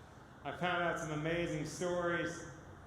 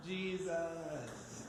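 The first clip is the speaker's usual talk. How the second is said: laughing with joy; slower than usual. Real, not acted. Overjoyed at rescue story.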